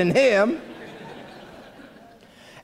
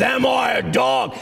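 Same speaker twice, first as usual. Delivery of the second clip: mock giant's contemptuous shout; sneering Goliath. Goliath sizing up the shepherd boy, sneering. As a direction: sneer it out as a hammed-up giant challenge. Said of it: "You gotta say it like that".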